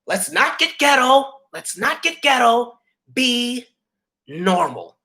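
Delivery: put-on high, slow, prissy Southern-girl voice, each word set apart; prim Southern girl. Imitating a snooty Southern housemate scolding the room. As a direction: look down your nose like a prim Southern belle. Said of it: "the Southern white girl out of nowhere goes".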